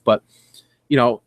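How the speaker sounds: ordinary talk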